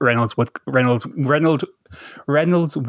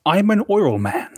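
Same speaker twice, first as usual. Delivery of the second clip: Daniel Plainview impression; 7 semitones higher than usual. Repeated Plainview line, higher and slower.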